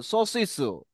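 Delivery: সসিসু with lips rounded, no আকার sound; rounded lips demo. Shown as a demonstration. Teacher models সসিসু for child, lips rounded. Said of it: "যেমন বলো দেখি".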